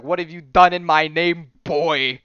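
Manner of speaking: mock-epic scolding; God of War impression. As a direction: play a commanding game hero. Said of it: "little bit of God of War there".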